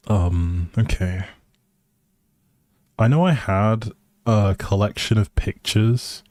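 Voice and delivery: ordinary talk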